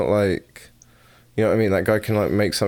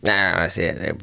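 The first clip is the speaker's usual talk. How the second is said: bad Southern accent. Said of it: "you have a horrible Southern accent".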